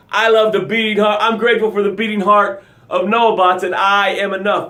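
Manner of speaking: energetic gratitude demo. Shown as a demonstration. Host showing viewers how gratitude should sound, energized. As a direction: declare it like you mean it. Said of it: "That's how your gratitude should sound".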